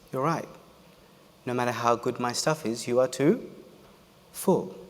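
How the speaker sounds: soft, calm, gentle reply; calm monk. Retold or imitated. Monk answering the angry psychiatrist, soft and calm. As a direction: speak softly like a patient teacher. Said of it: "Monk speaks for the first time".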